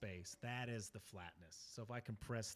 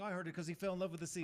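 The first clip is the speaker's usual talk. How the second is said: fast, higher Caribbean pirate voice; quick Caribbean accent; 8 semitones higher, 5 dB louder, much faster than usual. Pretend. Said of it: "Can you say it in, like, the Caribbean accent?".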